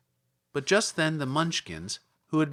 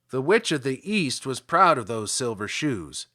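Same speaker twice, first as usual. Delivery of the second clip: louder little Munchkin voice; 4 dB louder than usual. Acted. Munchkin tells Dorothy about the shoes, louder. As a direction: speak up like an eager small villager.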